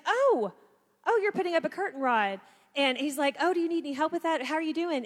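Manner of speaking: sweetly oblivious, eager to pitch in; husband spotting the curtain rod, offering help in a high, cheery voice. Retold or imitated. Husband voiced noticing her struggle.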